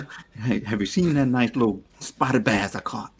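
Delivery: lightly voiced fishing buddy; a hint of a country fisherman; white fishing buddy. Shown as a demonstration. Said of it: "How you talk around your fishing friends".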